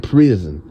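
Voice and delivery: "Prison" with a lightly lisped s; imitated lisp. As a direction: mimic a little lisp on "Prison", stressing the s. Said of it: "Just how he's like".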